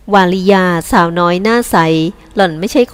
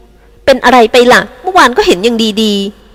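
slow question; 3 semitones higher, slower than usual. Acted. Mistress questions servant.

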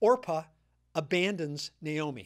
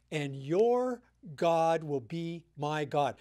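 measured reading of Ruth's vow, lower; scripture reading; 3 semitones lower than usual. Shown as a demonstration. Pastor reading Ruth's vow to Naomi, solemn reading. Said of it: "let me read this portion to you".

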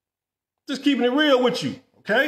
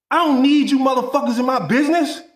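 angry rant. Real, not acted.

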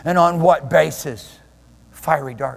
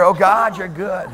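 building spoken prayer; demonstrating how to pray. Shown as a demonstration. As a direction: lead into prayer with rising fervor. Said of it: "I can start getting into some prayer".

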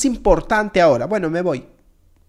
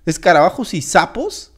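lower-pitched incredulous question, rising at the end; disbelieving echo; 4 semitones lower than usual. Acted. Guest questions the menu, incredulous.

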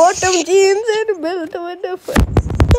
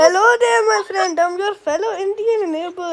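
put-on Indian accent; 3 semitones higher than usual. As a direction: play a friendly neighbour with an Indian accent. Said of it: "I'm gonna act as Indian".

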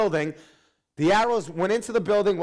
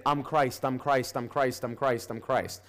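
repeated claims trailing off softer; mock false messiah; 5 semitones lower, 3 dB quieter than usual. Pastor mocking false messiahs who claim to be Christ, fading chant. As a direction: lightly parody a man calling himself Christ. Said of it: "there can only be one Christ".

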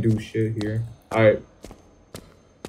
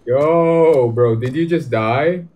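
startled; 4 semitones higher, 4 dB louder, much slower than usual. Real, not acted. Startled by character.

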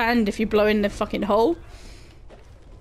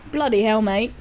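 British exclamation; 2 semitones lower than usual. Shown as a demonstration. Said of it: "Say bloody hell".

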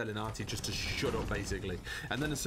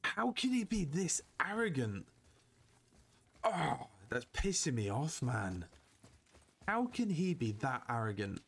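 seething exasperation. Real, not acted. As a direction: vent your annoyance in disbelief. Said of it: "I'm literally seething at Atreus right now".

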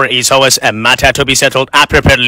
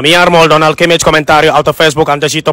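mock Spanish commentary.

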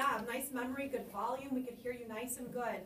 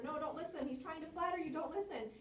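higher, urgent warning; afraid for the fly; 5 semitones higher than usual. Shown as a demonstration. Audience warning the fly about the spider, worried and high. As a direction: plead with the fly to stay away. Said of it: "be a little afraid for the fly".

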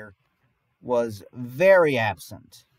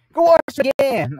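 higher, louder and slow command; stern order; 10 semitones higher, 6 dB louder, slower than usual. Retold or imitated. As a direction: send him back to wash, no arguing. Helper orders him back.

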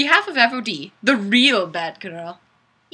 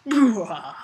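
bad evil laugh. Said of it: "needed a really bad evil laugh".

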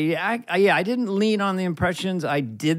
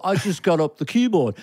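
lightly voiced humble Liverpudlian; a hint of modest Scouse musician; a famous musician; 2 semitones higher than usual. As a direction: toss it off like a humble rock legend. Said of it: "humble genius in his vernacular".

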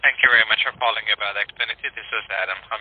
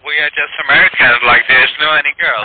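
English in a thick Indian accent. Real, not acted. Scammer denying any girl works there, thick Indian accent. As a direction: speak with a heavy Indian accent. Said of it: "in a very thick Indian accent".

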